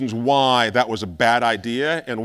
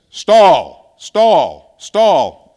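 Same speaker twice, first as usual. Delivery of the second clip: loud, higher imitated cockpit alarm call; stall warning voice; 4 semitones higher, 10 dB louder, much slower than usual. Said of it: "sounds something like this".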